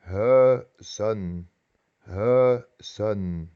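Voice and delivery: "Huizen" with UI as one long rounded vowel. Shown as a demonstration. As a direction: split "Huizen" slowly, stretching the UI sound. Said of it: "es E".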